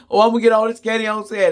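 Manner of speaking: fast, high gushing shopper; mocking eager candy shopper. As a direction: rattle it off like a greedy bargain hunter.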